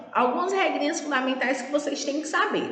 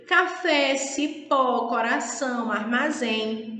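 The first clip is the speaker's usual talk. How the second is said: "café, cipó, coração, armazém" with each final syllable stressed; teacher's examples "café, cipó, coração, armazém", last syllable stressed; slower than usual. Shown as a demonstration. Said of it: "sílaba tônica se encontra demarcada na última".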